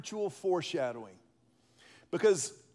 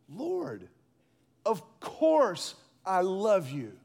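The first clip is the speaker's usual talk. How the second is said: exasperated; 3 dB louder, much slower than usual. Acted. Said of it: "Peter gets a little exasperated".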